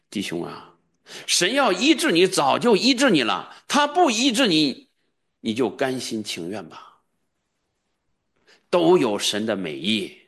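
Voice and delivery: mocked pastor. Pastor telling the sick brother to accept it, mocking. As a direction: parody a smug pastor's comfort. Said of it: "他说".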